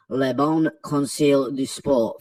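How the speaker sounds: badly faked French accent, slow; hammed-up French accent on the outlet name; woeful French accent. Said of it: "that absolutely woeful French accent".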